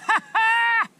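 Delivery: loud gleeful cackle; triumphant laugh. Real, not acted. Fish hooked, laughing.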